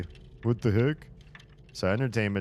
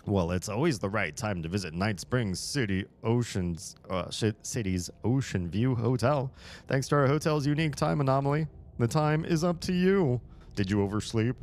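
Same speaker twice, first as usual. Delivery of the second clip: hotel ad voice; 5 semitones higher than usual. Pretend. Reads hotel ad aloud.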